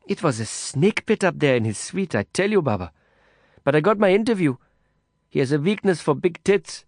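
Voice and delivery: a hint of the brash reporter, embarrassed; Kavita's voice. A narrator's reading.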